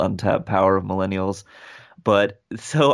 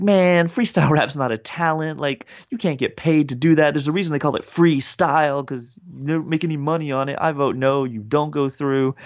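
higher-pitched mock indignation; Howard Stern, angry; 5 semitones higher than usual. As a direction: retell an irritated judge's rejection. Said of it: "Howard Stern's angry".

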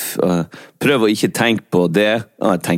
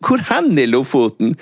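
surprised; 8 semitones higher than usual. Pretend. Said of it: "Jeg bare".

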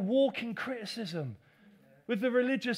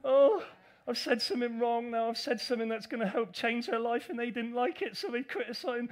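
mock self-pity; 2 semitones higher, 4 dB louder than usual. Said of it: "I'll be up and down thinking".

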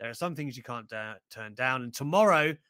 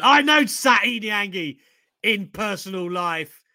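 mock quote; 3 semitones higher, 9 dB louder, slower than usual. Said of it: "that's like me going".

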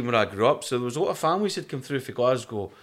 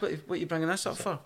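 mock exasperated protest; 5 semitones higher, 7 dB quieter, faster than usual.

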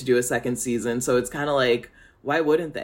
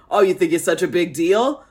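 challenging attitude; 2 semitones higher, 5 dB louder than usual. Retold or imitated. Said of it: "they have this attitude of just like".

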